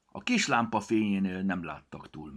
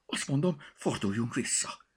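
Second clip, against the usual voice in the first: high, frightened cat voice, higher; a nervous cat begging to turn back; scared cat meow; 7 semitones higher than usual. Acted. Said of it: "nyávogott ijedten Picasso".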